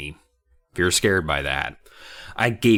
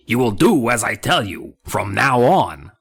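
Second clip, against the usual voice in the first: whispering dummy; 3 semitones higher, 4 dB louder than usual. Acted. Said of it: "the dummy whispered".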